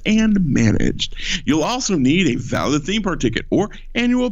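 overselling announcer voice, pitch swinging; salesman announcer. Acted. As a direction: sell it as hard as you can. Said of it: "I'll do it like normal".

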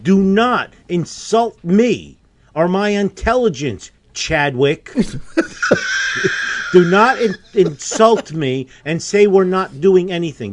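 loud indignant scolding; angry. Real, not acted. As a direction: dress him down hard. Host scolds caller about inaction.

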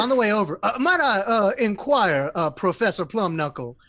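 lightly voiced high gnome professor; a hint of a polite little gnome. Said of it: "I keep falling into your orc voice".

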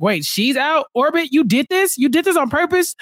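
high, incredulous questions at Orbit; shocked housemates grilling Orbit, pitched high; mock shocked accusation. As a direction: imitate players stunned she's out. Players voiced accusing Orbit.

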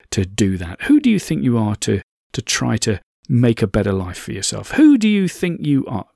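lightly voiced inner critic, building from belittling to accusing; mildly hectoring, pressing harder on each repeated challenge; bullying inner voice. Inner voice berating the speaker for trying, mildly bullying. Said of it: "that bullying voice".

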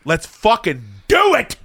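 mock battle cry, slow and rising; building excited yell. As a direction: pump yourself up before a pizza binge. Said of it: "I'm like".

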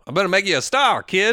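lightly voiced Hollywood promoter; a hint of a showbiz hustler; big-shot producer pitch. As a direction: sell the dream to a hopeful actor. Voicing a film producer's pitch.

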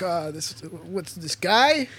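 lightly mocked grumbler, drawn-out question; put-upon complaint with a drawn-out questioning lilt; a light impression of a dismissive viewer; Mueller. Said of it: "it's my Mueller impression".

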